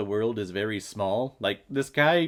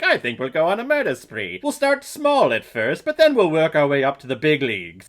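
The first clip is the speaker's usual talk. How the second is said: mock a villain casually proposing murder; hint of a cheerful menacing villain; matter-of-fact villain quote; 2 semitones higher, 5 dB louder than usual. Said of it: "he just flat out says".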